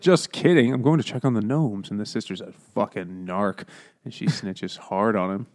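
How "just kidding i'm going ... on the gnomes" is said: put-on raised, lively kid's quote; playful backtracking. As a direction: toss it off high, as the kid. Voices kid backtracking.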